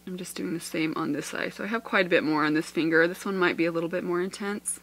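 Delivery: muffled behind a hand; hand over mouth. Real, not acted. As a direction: talk through a covered mouth. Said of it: "Sorry, my mouth is covered".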